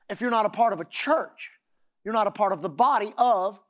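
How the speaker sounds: "church" leaned on, then "body of" left hanging; stress on church. Shown as a demonstration. Preacher sets up a line for the congregation, stressing "church". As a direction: punch "church" and break off after "of". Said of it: "don't put the emphasis on the word church in that phrase".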